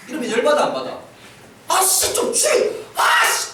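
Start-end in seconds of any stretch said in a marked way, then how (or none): 1.7-3.5 sulky half-breathed curse, sharply higher; annoyed teen grumble. Retold or imitated. Teenager grumbling at nagging mom, sulky curse.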